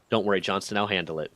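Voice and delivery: low, soft reassurance; calm them down, quietly in control; reassuring. Retold or imitated. Chief promises to deal with the sergeant, reassuring.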